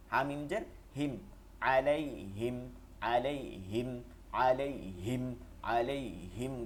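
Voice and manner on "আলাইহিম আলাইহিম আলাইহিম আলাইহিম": "আলাইহিম" slow and measured, with a short final him; grave sound. Shown as a demonstration. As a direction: recite "আলাইহিম" gravely at an unhurried pace. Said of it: "গম্ভীর আওয়াজে". ("আলাইহিম" গম্ভীর আওয়াজে)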